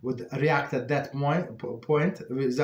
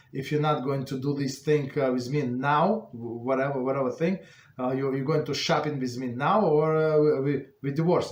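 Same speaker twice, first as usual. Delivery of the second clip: demanding spouse; 4 dB louder than usual. Retold or imitated. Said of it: "The spouse said".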